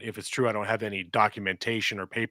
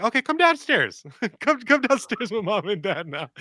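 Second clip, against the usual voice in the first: urgent call to daughter; 9 semitones higher than usual. Retold or imitated. Dad urgently calls daughter down.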